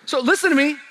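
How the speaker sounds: loud, high proclamation of faith; loud, high preaching of a confession of faith; bold declaration. Acted. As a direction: declare it like nothing can stop you. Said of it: "you ought to remind everybody around you".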